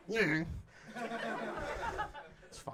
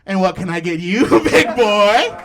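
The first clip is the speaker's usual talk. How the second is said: a touch of a sultry waitress voice, louder at the end; mock seductive purr to a customer; lightly voiced flirty server; 7 dB louder, slower than usual. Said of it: "she goes".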